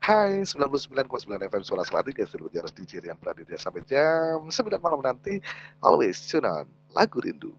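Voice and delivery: brisk, lifted radio station ID; radio DJ intro. Shown as a demonstration. Speech coach showing students fast, clear radio DJ patter. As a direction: rattle off the station ID like an evening DJ.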